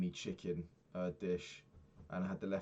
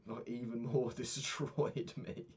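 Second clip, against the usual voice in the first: ordinary talk, nothing marked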